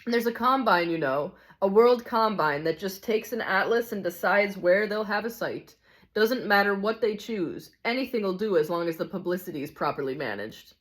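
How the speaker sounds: lightly voiced cynical ghost, emphatic; a hint of a jaded know-it-all; hard-bitten ghost. Ghost exposing a racket to the narrator, lightly voiced cynicism.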